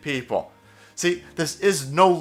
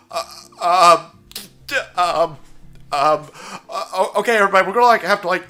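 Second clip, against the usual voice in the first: flustered stammering, then forced casual; Jeff Zucker; 3 semitones higher, 3 dB louder than usual. Acted. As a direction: stall with halting ums, then scramble to hang up. Acting out Zucker caught out.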